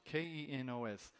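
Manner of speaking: K E N O S spelled out as separate letters. Shown as a demonstration. Preacher unsure of the word, spelling it out letter by letter. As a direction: spell out K E N O S one letter at a time. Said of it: "I'm not sure how to pronounce it".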